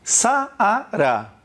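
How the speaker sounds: Saara stretched into three beats, Sa-a-ra; syllable by syllable. Shown as a demonstration. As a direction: sound out Saara slowly, one vowel per syllable. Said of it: "Você pronunciou quantas sílabas?".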